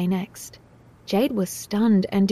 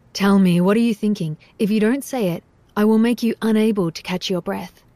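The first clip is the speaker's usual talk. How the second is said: louder, menacing demand; threatening; 3 dB louder than usual. Acted. Dario threatening Jade for the truth, menacing. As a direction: threaten her. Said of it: "a trace of threat".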